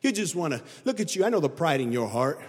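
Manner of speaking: low, fast sneering mimicry of the brothers; mocking brothers. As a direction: rattle it off as a scoffing older brother. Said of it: "They're like".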